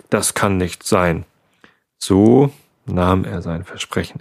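calm bedtime storyteller voice; story narration. A narrator's reading. Reads bedtime story aloud. (ruhige Gute-Nacht-Vorlesestimme)

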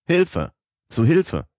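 high, desperate shout of Hilfe; crying for help. A narrator's reading. Lost alone in the cave, shouting for help. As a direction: scream it with all your strength. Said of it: "schrie ich aus Leibeskräften".

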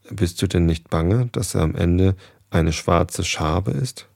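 slowing, weighted words up to "schwarze Schabe ist"; emphatic warning. A narrator's reading. Goose frightens poor Daunenfein, slow emphatic warning. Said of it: "verlieh ihren Worten den nötigen Nachdruck".

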